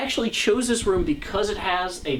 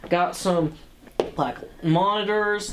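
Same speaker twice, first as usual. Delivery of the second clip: much higher, showy tour-guide voice; hammed-up TV host; 7 semitones higher than usual. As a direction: sell the office like a home-show host. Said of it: "pretend I was Bob Vila".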